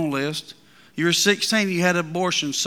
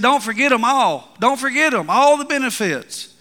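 preaching voice; 6 semitones higher, 5 dB louder than usual. Retold or imitated. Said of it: "He said".

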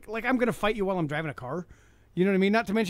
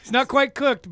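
laughing while joking; chuckling aside; 6 semitones higher, 5 dB louder, slower than usual. Real, not acted.

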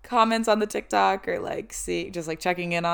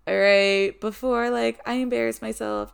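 put-on cute girl voice; 4 semitones higher, 3 dB louder than usual. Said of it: "I put on, like, this cute, like, girl voice".

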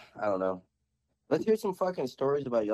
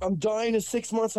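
mock pitiful lady; 9 semitones higher than usual. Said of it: "She's like".

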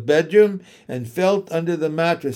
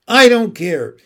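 higher, louder, tearful repeat; the same outburst rising into sobs; crying defiance; 6 semitones higher, 9 dB louder than usual. A narrator's reading. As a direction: push it out harder through tears. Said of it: "He was crying now".

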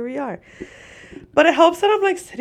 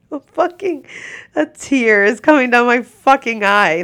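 laughing lament; 4 semitones higher, 6 dB louder than usual. Real, not acted. Laughing lament over pay.

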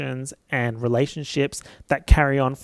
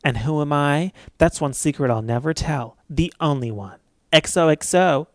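put-on Gossip Girl voice. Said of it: "Kristen Bell's Gossip Girl voice says".

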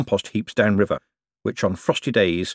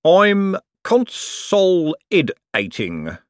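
grinning; 10 semitones higher, 4 dB louder, much slower than usual. A narrator's reading. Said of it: "said King, grinning".

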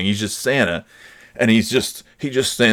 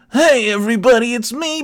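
very high puppet greeting; new Big Bird; 4 dB louder than usual. Retold or imitated. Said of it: "gonna sound like this".

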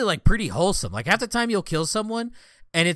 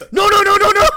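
very high, loud laughing scream of no; panicked screaming; 12 dB louder than usual. Retold or imitated. Enemy player pleading as his timer runs out, shrieking. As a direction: shriek the noes as if dying while laughing.

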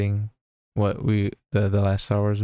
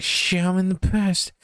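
slow, higher hammed-up dismay; mock alarm; 10 semitones higher, slower than usual. Marty realizes he is in the past, slow mock alarm. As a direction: stretch out fake alarm.

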